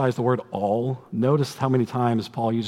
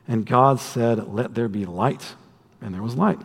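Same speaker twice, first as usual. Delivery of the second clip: measured scripture reading. Acted. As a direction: read it as holy text. Reads Genesis aloud.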